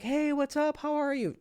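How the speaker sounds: put-on high, bright friendly girl voice; bubbly waitress. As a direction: chirp it like a cheerful waitress.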